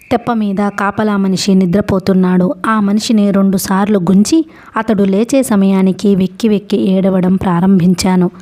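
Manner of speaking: plain reading voice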